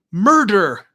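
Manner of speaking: Murder hit syllable by syllable, loud and high; each syllable stressed. A narrator's reading. Vanessa hammering the word at Quint, syllables stressed. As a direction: punch both syllables of Murder. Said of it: "She emphasized each syllable of the word".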